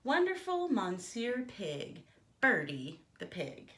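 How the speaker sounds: a lightly voiced, self-important pig; pompous pig. Pig boasting to the listener, lightly voiced pompous pig. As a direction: show off your own name like a vain pig. Pig introduces himself grandly.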